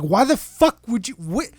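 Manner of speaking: high, sputtering mock exasperation; getting annoyed. Boss to employee who got scammed, annoyed. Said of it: "I'm, like, getting anno".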